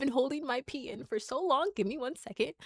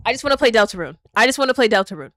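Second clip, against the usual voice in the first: whiny plea; 13 dB louder, much faster than usual. Real, not acted. Begging chat to play the game.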